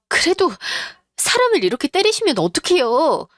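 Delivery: high-pitched, indignant plea; shocked protest. Acted. Slapped daughter-in-law protesting to mother-in-law, shocked.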